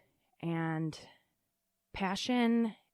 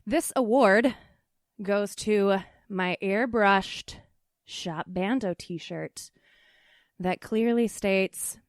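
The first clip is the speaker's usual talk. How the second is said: mock award announcer; 6 dB louder, slower than usual.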